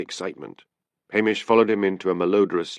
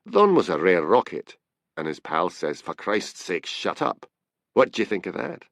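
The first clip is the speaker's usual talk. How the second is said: animated Scots storyteller with overheard quotes; a hint of a Scottish tipster, eagerly recounting; lightly voiced Scottish informant. Scottish informant retells overheard bar talk.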